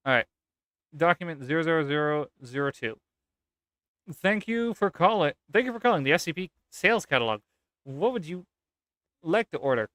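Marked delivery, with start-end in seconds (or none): 4.1-5.3 put-on higher, slower voice with a British accent; British young lady. British operator answers the phone, higher put-on accent. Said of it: "young lady with a British accent". 5.5-9.9 put-on British young lady. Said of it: "young lady with a British accent".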